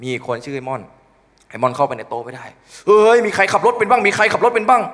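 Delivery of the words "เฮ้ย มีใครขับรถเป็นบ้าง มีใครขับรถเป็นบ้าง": frantic. Retold or imitated. Friend panics during fake earthquake.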